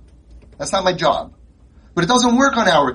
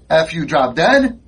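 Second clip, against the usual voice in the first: put-on defiant kid; slower than usual. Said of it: "Sorry, I'm talking like this".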